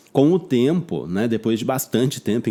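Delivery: ordinary talk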